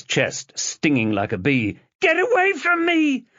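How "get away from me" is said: high, loud scream; screaming shout. Acted. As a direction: drive him back with a yell. Chloe slapping him.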